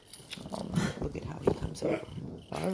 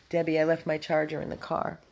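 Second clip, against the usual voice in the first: calling out; 7 dB louder than usual. Real, not acted. Calling across the room to Debbie.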